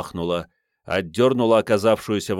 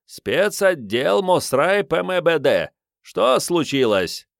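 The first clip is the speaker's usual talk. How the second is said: officious official; 7 semitones higher, slower than usual. Acted. Fake officer addressing crowd.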